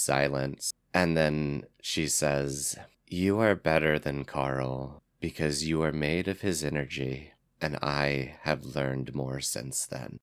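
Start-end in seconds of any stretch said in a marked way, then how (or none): 3.1-10.2 soft and quiet, full of love; loving goddess voice. Acted. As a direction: speak it with tender, hopeful love. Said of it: "depth of her emotion and the love".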